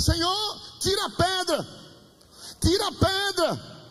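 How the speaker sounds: crying out. Retold or imitated. Dreamer begging God to remove the rock, crying out. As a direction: imitate a man calling desperately to God. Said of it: "ele começou a gritar".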